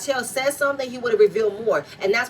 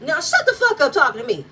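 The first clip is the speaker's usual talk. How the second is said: mock angry retort; 5 semitones higher, 5 dB louder than usual. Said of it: "Martell looked at Nell and said".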